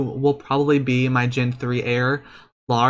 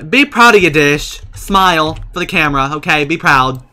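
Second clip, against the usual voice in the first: encouraging cheer; 2 semitones higher, 8 dB louder than usual. Real, not acted. Cheering sim on.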